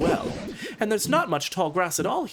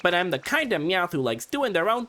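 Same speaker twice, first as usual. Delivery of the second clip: Meowth voice. Acted. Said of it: "accidentally doing Meowth voice".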